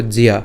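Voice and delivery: জিয়া with j, y and long a blended; জিয়া said as one blended sound; pronunciation demo. Shown as a demonstration. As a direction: model জিয়া as ji-ya for learners. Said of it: "তখন এর উচ্চারণটা কেমন হবে".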